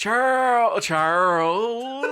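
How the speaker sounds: drawn-out name in put-on British accent; mock country British accent. Player balancing the character's country British accent. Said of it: "find the balance of the country".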